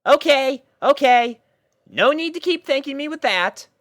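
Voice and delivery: pony voice, fondly exasperated; Rainbow Dash, mock exasperated. A narrator's reading. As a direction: brush off the affection. Rainbow fending off puppies.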